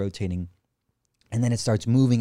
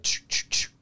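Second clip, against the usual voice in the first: imitated zip; 4 dB quieter, slower than usual. Shown as a demonstration. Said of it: "it makes this quick leap, like".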